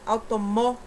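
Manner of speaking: "automó" with the final "mó" pushed; stress on MÓ. Shown as a demonstration. Teacher showing pupils the strong syllable, firm final "mó". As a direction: lean on the last syllable "mó" of automó. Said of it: "essa sílaba mais forte".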